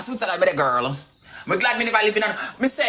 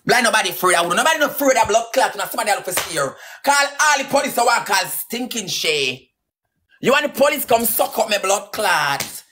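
forceful, heated dare; angry defiance. Real, not acted. Daring a rival to call the police, angry defiance. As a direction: throw the challenge out hard, punching the curses.

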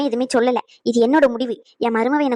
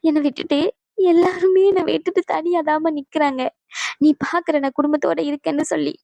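tearful pleading; 3 semitones higher than usual. Acted. Mother tearfully begging her leaving mother to stay. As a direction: beg her to stay, voice near tears.

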